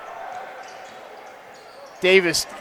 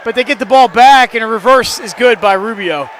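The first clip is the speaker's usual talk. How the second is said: excited call; 3 semitones higher, 4 dB louder than usual. Real, not acted. Call after a block.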